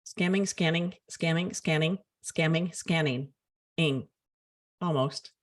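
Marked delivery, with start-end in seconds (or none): 0.1-4.1 even, rhythmic run at tricky similar words; careful go at a tongue twister; tongue-twister attempt. Shown as a demonstration. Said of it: "Say that three times fast".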